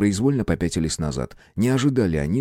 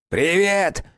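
creaky voice; 11 semitones higher than usual. A narrator's reading. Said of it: "отозвался скрипучим голосом".

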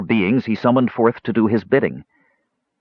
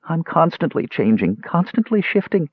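dismal lament climbing high; mildly weepy maiden; 9 semitones higher than usual. A narrator's reading. Maiden weeping over endless changes, mildly dismal. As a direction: lament it, lightly tearful. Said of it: "wept dismally".

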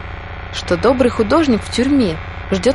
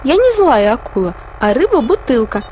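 high pleading; 4 semitones higher than usual. Acted. Fish continues pleading.

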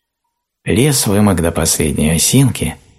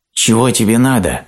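frightened; 7 semitones higher than usual. A narrator's reading. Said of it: "испуганным голосом спросил".

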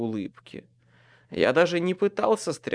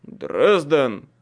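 sharp call; 6 dB louder than usual. Acted. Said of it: "резко произнёс Майкл".

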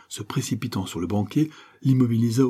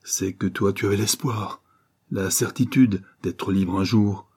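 desperate cry. Acted. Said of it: "s'écria Favreau d'un accent désespéré".

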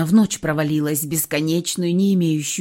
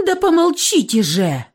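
high, loud plea for silence; losing patience with the noise; loud, high burst of exasperation; exasperated cry; 9 semitones higher, 5 dB louder than usual. A narrator's reading. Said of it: "Не выдержала девушка".

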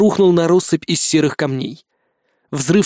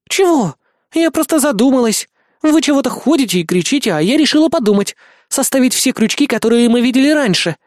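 put-on higher, offended young woman; indignant girl voice; 8 semitones higher than usual. A narrator's reading. Helen protests to the angry narrator, indignant and higher. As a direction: protest innocently, much higher.

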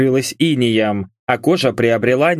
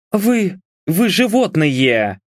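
higher, slow indignant stammer; grumbling; 6 semitones higher, slower than usual. A narrator's reading. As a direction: grumble in disgust at them. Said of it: "проворчала Мишель".

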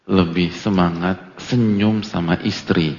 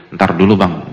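mock brush-off; 2 semitones lower, 5 dB louder than usual.

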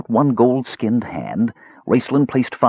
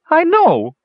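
much higher and louder, a wailing kender cry; 5 dB louder than usual. A narrator's reading. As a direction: throw your head back and wail it out. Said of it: "cried Earwig".

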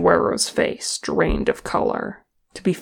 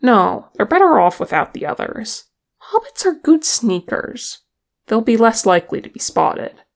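excited; 5 semitones higher, 6 dB louder than usual. Acted. Nori interrupts in uproar.

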